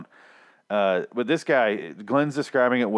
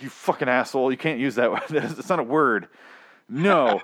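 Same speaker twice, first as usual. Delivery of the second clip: mildly raised retold angry rant; anger; 3 semitones higher than usual. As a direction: replay your fuming at the host. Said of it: "continued on in my anger".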